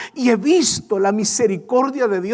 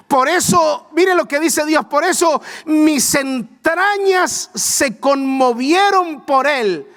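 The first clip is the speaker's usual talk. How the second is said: fervent preaching; 4 semitones higher than usual. Acted. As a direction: preach it with rising fire. Preaching builds in intensity.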